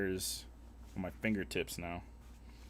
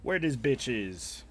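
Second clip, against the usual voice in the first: slow drawn-out catchphrase; 3 semitones higher, 4 dB louder, slower than usual. Shown as a demonstration. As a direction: drag it out slowly. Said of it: "It's my favorite phrase".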